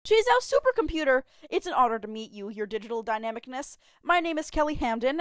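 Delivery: put-on high, loud fan-girl gush; excited girl greeting a supercomputer; gushing excitement. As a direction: gush at the computer like meeting a celebrity. Her shiny grin back.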